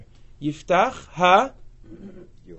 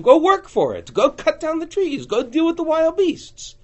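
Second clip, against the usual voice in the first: commanding charge; 11 semitones higher, 4 dB louder than usual. Acted. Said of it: "Yeshua gave us a territory and said".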